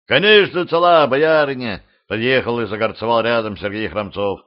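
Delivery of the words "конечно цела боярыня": high, loud cheerful greeting; hearty cheerful shout. Acted. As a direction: ride up booming with cheer. Rider arrives cheerfully greeting.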